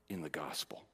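whispered, hushed ending. Real, not acted. Preacher hushing the congregation on the final words, whispered. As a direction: let it fall to a whisper.

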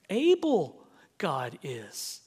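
slow, lightly voiced Yoda; a hint of the Jedi master, slowly. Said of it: "the way Master Yoda speaks".

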